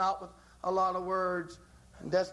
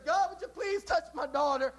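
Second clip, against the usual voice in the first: higher, polite asking voice with little at stake; a light, hopeful request that can take no for an answer; desire's plea; 8 semitones higher than usual. Acted. Mother asking God, first time, lightly pleading. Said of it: "Desire says".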